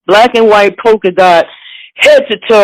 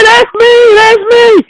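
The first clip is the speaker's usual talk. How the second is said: giddy excitement; 13 semitones higher, slower than usual. Retold or imitated. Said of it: "excited reply".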